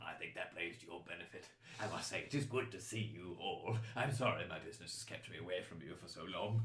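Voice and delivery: lightly voiced, courteous statesman; apologetic chancellor. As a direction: offer a mild courtly apology. Game master plays the chancellor.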